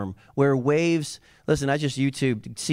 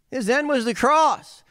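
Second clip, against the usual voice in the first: rising proclamation; 10 semitones higher than usual. Acted. Repeated line, climax.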